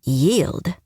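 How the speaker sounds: disbelieving, rising question; incredulous. Acted. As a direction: repeat the word in disbelief. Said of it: "Just who was this guy?".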